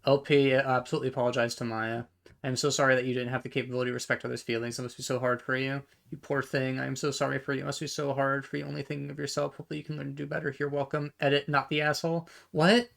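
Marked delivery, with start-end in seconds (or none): 2.4-11.1 mock fake apology. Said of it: "it's a fake apology to Maya". 12.5-12.9 high, louder disbelieving "What?"; surprised. Real, not acted. Reacting to the post's edit.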